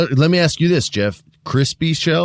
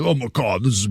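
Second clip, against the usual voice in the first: talking through a mouthful of taco; words round a big bite; mouth full. Retold or imitated. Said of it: "with your mouth full".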